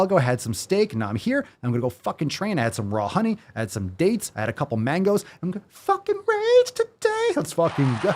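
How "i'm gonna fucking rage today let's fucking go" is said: high, hammed-up gym bro squeal; mock pre-workout hype. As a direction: pump yourself up like a meathead.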